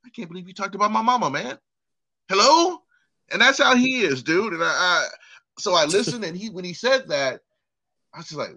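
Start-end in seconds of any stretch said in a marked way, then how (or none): 0.0-2.8 mock offended whine. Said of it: "he's like".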